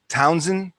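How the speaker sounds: Townsend with an extra n, for Towson; slow, imitated local "Townsend"; local mispronunciation. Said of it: "they always pronounce".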